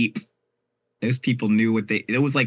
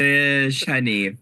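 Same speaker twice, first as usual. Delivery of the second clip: sassy drag queen; 3 semitones higher, 4 dB louder, much slower than usual. Pretend. Sassy fish honey bit.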